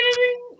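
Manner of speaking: high ringing dings; quick, high sung-out chimes; imitated ding. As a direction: mimic a bell with the voice. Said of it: "you hear the ding".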